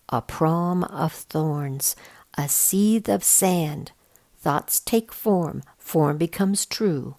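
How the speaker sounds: slow, hushed recitation of a prophecy; slow whispered verse; reading a riddle aloud. A narrator's reading. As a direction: read it like an old spell, slowly. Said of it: "I read aloud the lines about the trials".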